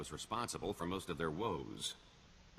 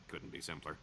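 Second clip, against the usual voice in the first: chuckling; 4 semitones lower, 4 dB quieter than usual. Acted. Smug scheming chuckle.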